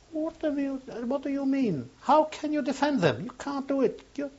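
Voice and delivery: very high, strained shout; an outraged cry at the man defending her; shouting at him. Retold or imitated. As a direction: yell it in a sharp, piercing voice. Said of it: "they started shouting at me".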